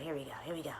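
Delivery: softly whispered, getting ready; whispered here we go. Real, not acted. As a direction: whisper it before you begin. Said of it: "about to play bowl".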